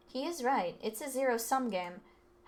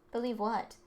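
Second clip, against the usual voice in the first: ordinary talk, nothing marked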